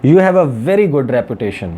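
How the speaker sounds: emphatic, measured quote in English; lightly quoted Donald Trump. Retold or imitated. Journalist reading Trump's call to Nawaz Sharif, lightly emphatic. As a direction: read it out as lightly dramatised praise. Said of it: "वो कह रहे हैं कि".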